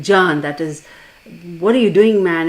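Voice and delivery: loud, indignant telling-off; retold anger. Friend confronting the man he brought, mock angry outburst. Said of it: "he got all mad".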